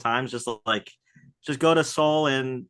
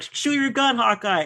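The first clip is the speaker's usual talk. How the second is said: Potter; 10 semitones higher than usual. Retold or imitated. Acts Potter ordering under fire.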